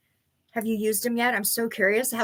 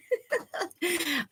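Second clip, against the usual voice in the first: rueful laugh; 7 semitones higher, 7 dB quieter than usual. Real, not acted. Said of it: "I definitely have to laugh".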